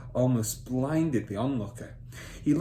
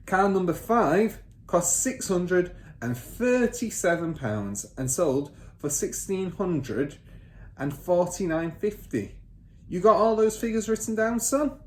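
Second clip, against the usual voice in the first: higher, louder command to write; bossy father; 8 semitones higher, 4 dB louder, slower than usual. Acted. Father ordering son to take down figures, bossy. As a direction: snap the order at the boy.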